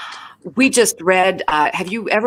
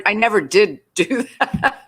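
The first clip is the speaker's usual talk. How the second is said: laughing through the words; chuckling, a bit embarrassed; 6 semitones higher than usual. Real, not acted. Guest asked if she can roller skate backward, laughing through an admission. Admits never skating backward.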